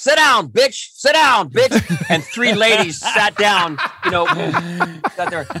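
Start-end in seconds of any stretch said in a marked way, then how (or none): 0.0-2.1 high-pitched yell. Retelling how the dad yelled at the golf ball: imitating someone yelling. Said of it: "he was yelling to the ball".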